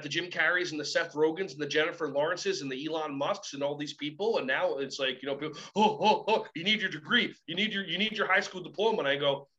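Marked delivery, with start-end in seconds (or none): 5.8-9.0 laughing mock of the degree crowd. Speaker mocking people who insist on degrees, laughing mock. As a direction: parrot them with a sneer.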